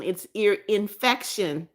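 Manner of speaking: "ear infection" said slowly, each word spelled out; slow correction. Shown as a demonstration. Reminding Matthew of the right word, slow and deliberate. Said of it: "it's not ear infraction".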